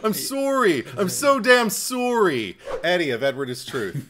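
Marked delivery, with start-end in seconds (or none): 0.0-2.6 high, loud Canadian "sorry", drawn out; quoted Canadian accent. Acted. Co-host opening the show with a movie line, exaggerated Canadian accent. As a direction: quote him in a heavy, slowed Canadian accent. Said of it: "he's the one who I quoted".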